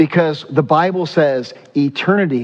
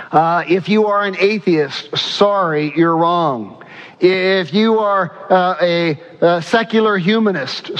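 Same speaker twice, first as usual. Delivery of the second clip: preaching at full force, a touch higher; fervent preaching; 3 semitones higher than usual. Acted. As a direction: drive the point home to the congregation. Preaching to atheists.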